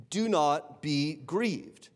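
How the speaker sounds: slow, deliberate "Do not be grieved" with stress on "Do"; slow pastoral emphasis; slow and weighty. Shown as a demonstration. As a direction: draw each word out gently. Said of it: "repeated slowly for weight".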